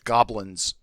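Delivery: "Goblins" with the L sounded; corrected pronunciation. Shown as a demonstration. Game master correcting a misheard word, "Goblins" with its L. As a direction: say "Goblins" clearly as GOB-linz. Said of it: "Did he say goblins?".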